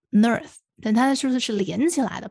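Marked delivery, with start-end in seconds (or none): 0.1-0.6 slow "nerth", n glued onto earth; linked sound shown. Shown as a demonstration. Showing what the linking sounds like, slow "nerth". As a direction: draw out "nerth" as one syllable. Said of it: "有点像nerth".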